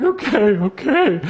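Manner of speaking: high, slow, mock-crying okay; hammed-up crying child; imitating bawling kid. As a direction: blubber it like a sobbing boy. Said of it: "he starts crying, like, just bawling".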